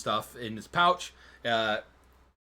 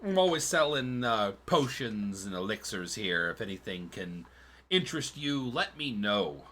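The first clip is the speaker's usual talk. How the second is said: chirpy merchant voice. Acted. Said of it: "and he says".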